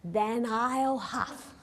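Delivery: threatening wolf. Acted. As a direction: stretch each threat slowly. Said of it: "wolf threatens the pig".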